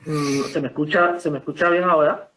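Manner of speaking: muffled behind a hand; talking through a hand over the mouth. Real, not acted. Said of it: "Que tiene la mano en la boca".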